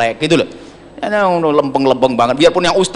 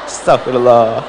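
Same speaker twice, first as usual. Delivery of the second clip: irritated husband; 10 semitones higher than usual. Retold or imitated. Preacher voicing a fed-up husband, high aggrieved complaint. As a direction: whine it as the pious husband fed up at home.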